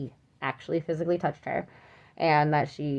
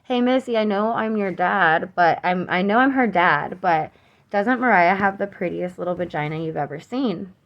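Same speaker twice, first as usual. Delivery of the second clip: retold shout; 2 semitones higher, 3 dB louder than usual. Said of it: "He shouts at me, he goes".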